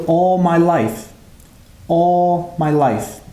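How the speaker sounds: loud, very slow, drawn-out imitation; imitated father calling from another room; deaf father. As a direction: call it out slowly in an imitated deaf man's voice. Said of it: "his father in the other room says".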